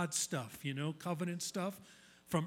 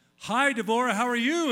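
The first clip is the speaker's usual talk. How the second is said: abrupt inflection shift, sudden high and very loud; 6 semitones higher, 11 dB louder than usual. Showing a change in inflection after plain speech: changed inflection. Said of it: "a change in my inflection".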